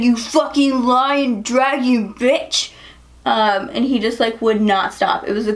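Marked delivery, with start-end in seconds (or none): 0.0-2.7 slow, higher-pitched imitation of a furious drunk; mock drunk rage. Drunk guy accuses her of lying, mock furious. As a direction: drag out the insult in mock outrage. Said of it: "he was so mad".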